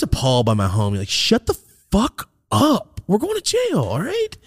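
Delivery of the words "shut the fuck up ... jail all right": way higher, slow, exasperated; squeaky mock outrage. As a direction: hiss at your friend to stop. Telling friend shut up.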